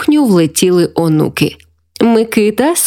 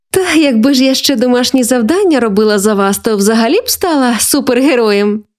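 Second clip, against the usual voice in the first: lightly playful, higher-pitched grandma; joking; 4 semitones higher than usual. Acted. Grandma joking about doing homework for grandchildren, lightly playful. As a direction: toss it off as a self-mocking joke. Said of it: "знову пожартувала Валентина".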